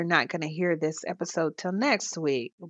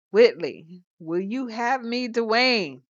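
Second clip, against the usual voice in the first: raised, earnest plea; Dwayne's plea; 5 semitones higher, 4 dB louder, slower than usual. Retold or imitated. Dwayne interrupting the wedding to ask Whitley, raised and earnest. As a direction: cut in and ask her boldly. Dwayne proposing mid-ceremony.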